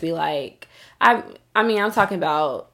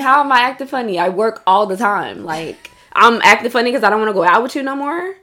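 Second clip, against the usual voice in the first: heated; 4 semitones higher, 5 dB louder than usual. Retold or imitated. Heated retort to friend.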